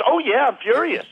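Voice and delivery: high-pitched, hammed-up anger; mock furious. Woman answering coach who asked if she's mad, mock furious. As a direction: imitate someone openly admitting they are mad. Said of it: "She sounded mad 'cause she really was mad".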